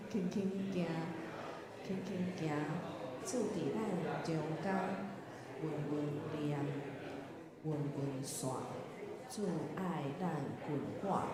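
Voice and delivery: measured verse reading; reading hymn lyrics. Shown as a demonstration. Teacher leading the group through the hymn's next page, measured recitation. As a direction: recite in short phrases with pauses. 咱先做来读第一节歌词.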